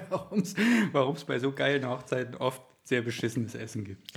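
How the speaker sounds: laughing. Real, not acted. Laughs while repeating the joke.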